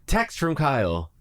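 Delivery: slow flat robotic readout. Acted. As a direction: announce it like a car speaker. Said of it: "in a robotic voice".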